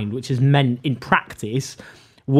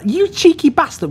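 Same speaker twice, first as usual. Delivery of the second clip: put-on a much higher, failed stab at a North East accent; badly faked Geordie-style accent; attempted Ian Lavery accent. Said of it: "I can't do his accent".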